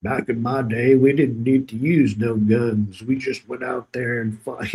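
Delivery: lightly voiced grizzled old-timer; a hint of a wise old veteran lecturing; old man in a movie. Old man lecturing his son before battle, lightly voiced. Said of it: "the old man says".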